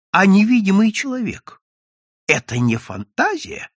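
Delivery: high, loud outburst easing off; indignant cry of challenge. A narrator's reading. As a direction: exclaim in protest, then question. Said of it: "возопил Евсей".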